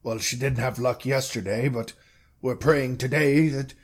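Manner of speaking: halting, measured mayor explaining; a hint of a reluctant official; lightly voiced mayor. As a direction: explain carefully as a mayor, with long pauses.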